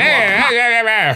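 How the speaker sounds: high, loud "hey, hey" to stop a fight; loud calling out. Retold or imitated. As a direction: call out to break it up. Echoes teacher in clip.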